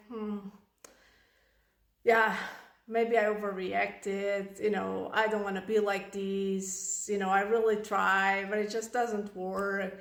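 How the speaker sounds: low, slightly subdued second thoughts; guilty parent. Acted. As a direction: mull it over with mild guilt. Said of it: "anger starts turning into guilt".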